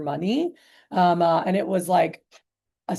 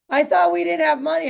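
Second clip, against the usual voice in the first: higher and louder, incredulous retort; indignant husband; 8 semitones higher, 4 dB louder than usual. Retold or imitated. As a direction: throw her own words back at her. Husband retorts during spousal argument.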